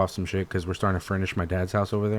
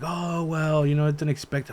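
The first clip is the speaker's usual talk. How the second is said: dad's voice; 6 semitones higher, slower than usual. Retold or imitated. Dad voiced in story.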